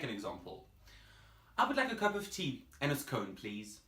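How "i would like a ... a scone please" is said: British accent. Shown as a demonstration. Teacher demonstrates ordering tea and a scone, British accent. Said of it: "that is very British".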